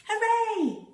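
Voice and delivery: high, loud cheer of delight; joyful shout. Acted. Hoppy the rabbit cheering at the lambs, high loud joyful shout. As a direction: shout your joy to the meadow.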